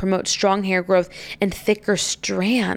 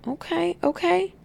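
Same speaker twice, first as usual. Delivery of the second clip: surprised; 10 semitones higher, 5 dB quieter than usual. Real, not acted. Reacts to news about a rapper.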